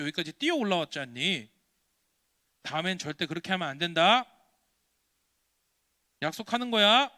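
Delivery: lightly voiced stern grown-up; admonishing adult. Adult warning the boy who lied, lightly voiced admonishing. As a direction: firmly reprove a child, pressing for a promise. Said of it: "어른이 얘기합니다".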